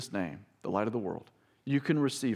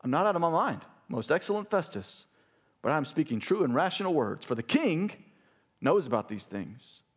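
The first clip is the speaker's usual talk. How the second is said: raised, earnest reading; preaching Paul's reply; 2 semitones higher than usual. Acted. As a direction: answer the governor boldly. Paul's answer read aloud.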